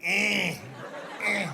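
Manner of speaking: imitated feeble "eh"; little mock groans of a helpless old lady; hammed-up whimper of effort; old lady's grunt. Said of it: "and she's like".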